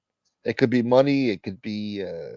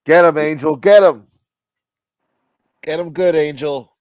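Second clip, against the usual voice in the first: cheering; 4 semitones higher, 7 dB louder than usual. Real, not acted. Cheering on a fighter.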